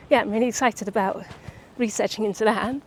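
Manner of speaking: slightly breathless, between breaths. Real, not acted. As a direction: talk while catching your breath. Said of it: "I'm so out of breath".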